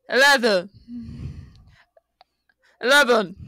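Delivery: badly faked American accent; mock American, slightly off; attempted American accent. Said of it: "Need to try and make an accent".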